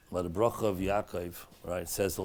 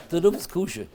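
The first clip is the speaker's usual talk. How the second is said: mother reading sign; 9 semitones higher, 8 dB louder than usual. Retold or imitated. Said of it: "Walk into the shul and says".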